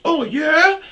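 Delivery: very high, very loud challenging yell; mock tough-guy shout; retold taunt. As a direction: throw it back as a dare. Other driver taunting.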